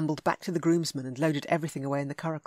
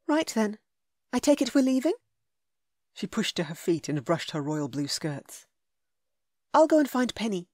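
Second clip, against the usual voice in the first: heroine voice; 4 semitones higher than usual. A narrator's reading. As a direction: voice her bright.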